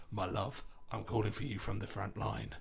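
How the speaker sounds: a lightly done Cockney lover calling from the front; Cockney soldier. Retold or imitated. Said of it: "who was a Cockney".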